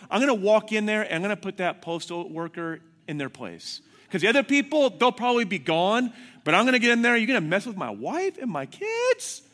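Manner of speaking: loud, high self-righteous tirade; worked-up, hammed-up threat; retold fury. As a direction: rant to yourself like a wronged husband. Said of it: "I am so mad".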